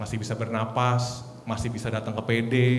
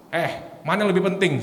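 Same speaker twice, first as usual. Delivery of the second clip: retold answer; 6 semitones higher, faster than usual. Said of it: "saya bilang".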